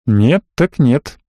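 медленно, на выдохе, с лёгкой досадой; выдохнуть смиренно, не спеша; выдохнул. A narrator's reading. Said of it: "выдохнул я". (рассказчик выдыхает, соглашаясь с бароном, медленно)

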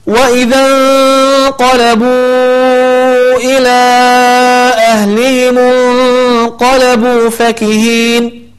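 انقلبوا إلى and أهلهم with the long vowels held four or five beats equally; separated madd. Shown as a demonstration. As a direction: stretch both madds the same length. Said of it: "مد منفصل". (مد منفصل أربع حركات)

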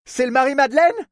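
high, urgent rising question; feverish pressing. A narrator's reading. Woman reaches the port man, feverish question. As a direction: press him for an answer. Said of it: "le pressa-t-elle fiévreusement".

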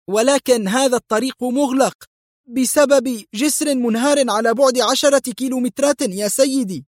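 nervous driver warning his boss; frightened driver warns of the broken bridge; anxious. Acted. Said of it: "وهو يقول في قلق".

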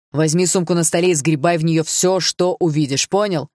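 furious father ordering his son; angry orders. Acted. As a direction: drive the orders home, hard.

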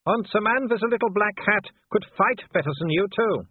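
Wolfgang. Acted. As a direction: sneer at the cornered man from below. Wolfgang's voice held.

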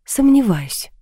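lightly mocking retort; scornful smirk. A narrator's reading. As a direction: doubt it with a smirk. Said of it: "усмехнулась я".

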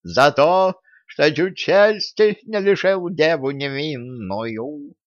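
cat-like mewling voice; meowing. A narrator's reading. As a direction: mew the words like a cat. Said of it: "мяукнула Василиса".

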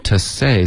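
slow "to say" with a careful s; correct s sound. Shown as a demonstration. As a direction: say "to say" with the tongue tip up at the palate, off the teeth. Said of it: "斯的音你好像舌尖碰到上齿了". (“to say”慢读，s音舌尖靠上颚)

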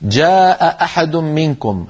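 slow "جاء أحد منكم", both glottal stops sounded; long ā in "جاء", then two separate catches into "أحد"; two full hamzas. Shown as a demonstration. Teacher showing two hamzas meeting in "جاء أحد منكم", both sounded. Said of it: "التقى همزتان".

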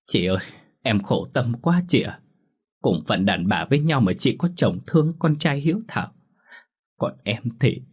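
a touch of tearful complaint; understated weeping plea; mild sobbing. Acted. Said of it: "Lan ôm mặt khóc nức nở". (Lan nghẹn ngào than thở với chị Thơm, hơi khóc)

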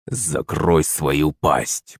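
медленно, тихо и низко, с угрозой; процеди каждое слово; процедил сквозь зубы. A narrator's reading. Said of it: "процедил он". (громила грубо цедит угрозу)

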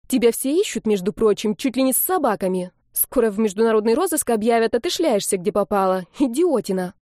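распекать брата выше и громче обычного; отчитывает, не давая вставить слово; сердитая отповедь. Acted. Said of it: "заорала она вдруг на брата". (сестра отчитывает пропавшего брата, сердито)

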